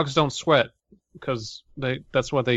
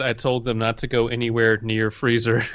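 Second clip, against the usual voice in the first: put-on Russian accent. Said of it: "this is another Russian story".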